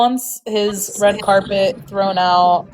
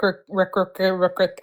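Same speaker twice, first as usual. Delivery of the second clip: stumbling; 5 dB quieter than usual. Real, not acted. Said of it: "I had a stroke".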